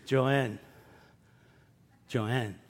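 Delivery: low, sinking double name; exasperated call. Retold or imitated. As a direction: say her name, fed up. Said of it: "they go".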